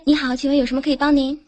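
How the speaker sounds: quick polite hotline greeting; customer service voice. Pretend. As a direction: rattle off the service script fast. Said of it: "来开始".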